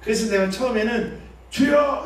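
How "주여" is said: 높고 크게 부르짖기; 주여를 힘껏 외쳐; 외치는 주여. Shown as a demonstration. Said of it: "이렇게 해봐요". (힘차게 외치는 주여)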